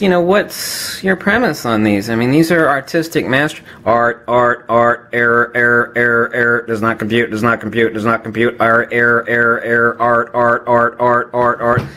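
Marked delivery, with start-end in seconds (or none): 3.9-11.8 robot crashing, does not compute; malfunctioning machine looping words; glitching robot. Acted. Machine breaks down over art.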